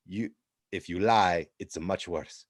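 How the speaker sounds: hammed-up Italian interrogator pressing hard; Italian accent. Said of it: "thick Italian accents".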